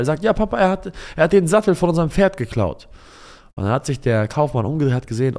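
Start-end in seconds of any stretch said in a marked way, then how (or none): 0.2-2.9 put-on high, louder child's outcry; upset child. Son tells father the saddle was stolen, high upset child. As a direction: tell on the thief like an upset kid.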